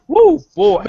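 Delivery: high, loud excited holler; joyful high yell of excitement; excited whoop. Real, not acted. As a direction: let out a big happy woo. Excited whoop joining the show.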